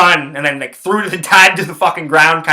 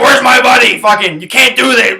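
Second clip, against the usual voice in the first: high, loud imitation of an outraged buddy; retold screaming; 8 semitones higher, 4 dB louder than usual. Buddy pushing past security to find him, imitated yelling. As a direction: yell it as the angry friend barging in. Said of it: "He's just screaming".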